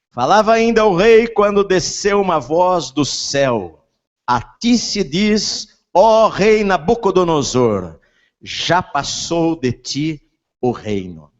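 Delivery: solemn voice from heaven, slow; scripture reading. Acted. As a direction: proclaim it like a heavenly voice. Reads scripture aloud.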